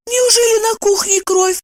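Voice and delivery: high alarmed exclamation; alarmed exclaim. A narrator's reading. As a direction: cry out in fear. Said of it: "воскликнула Евдокия". (высокое испуганное восклицание)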